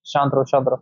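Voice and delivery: lightly acted master, hushing the mind; low, understated calming command. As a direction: quietly order it to settle, repeating softly. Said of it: "मालिक की तरह behave करूंगा".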